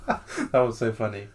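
slow, through a real laugh; amused laughing. Real, not acted. Friend recalls the ice cream mess, laughing. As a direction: laugh while reminiscing fondly.

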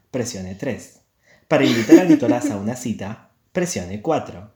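automated hotline recording voice; phone menu voice. Acted. Mock phone line menu intro. (voz de contestador telefónico)

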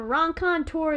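French word in a flat-footed American accent; bad American accent. Shown as a demonstration. Giving the French word to a co-host, bad American accent. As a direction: say "Ron contour" slowly with American sounds. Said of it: "me saying it with my bad American accent".

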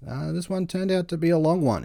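creaky, sore-throated vocal fry. Real, not acted. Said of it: "If, if I've got that Kardashian vocal fry".

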